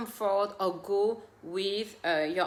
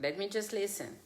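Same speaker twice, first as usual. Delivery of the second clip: soft calm reply; 2 semitones lower, 9 dB quieter, faster than usual. Shown as a demonstration. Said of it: "So now you know and say".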